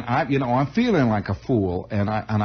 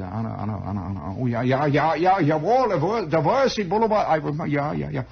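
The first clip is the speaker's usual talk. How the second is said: put-on drifting old uncle; 5 semitones higher than usual. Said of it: "he's sort of drifting off".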